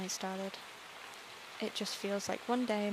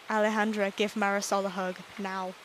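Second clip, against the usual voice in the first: calling out; 4 dB louder than usual. Acted. Calling out a command to Alejandra.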